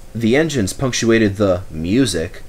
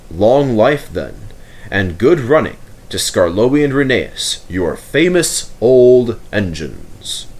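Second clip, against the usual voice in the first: lightly voiced stately Duke, slowing at the end; a hint of a dignified nobleman declaring a line open; formal Duke. The Duke addresses ladies, gentlemen and engines, a touch formal.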